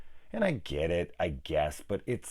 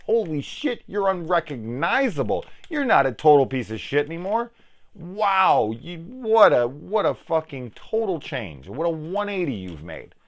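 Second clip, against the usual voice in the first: high, loud amazed gushing; hammed-up astonishment, stretching the key words; mock amazement; 6 semitones higher, 4 dB louder than usual. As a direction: act floored with exaggerated disbelief. Mock amazement at changed bully.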